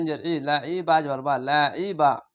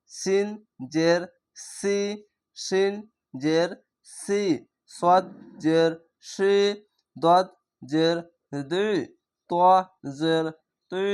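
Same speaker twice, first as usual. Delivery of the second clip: steady, measured classroom letter drill; letter drill recitation; 2 semitones higher, slower than usual. Shown as a demonstration. Teacher drilling students through the alphabet with kasra, rhythmic. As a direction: chant each letter, kasra, then the sound.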